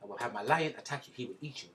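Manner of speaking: mock Rwandan accent, deadpan threat. Podcaster warning co-host about his lion, mock Rwandan accent. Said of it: "if you see me talk like this".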